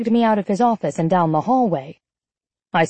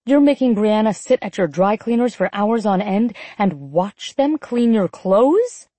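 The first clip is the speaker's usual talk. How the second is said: seething; 2 semitones higher than usual. Acted. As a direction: bite out each word with anger. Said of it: "I seethed".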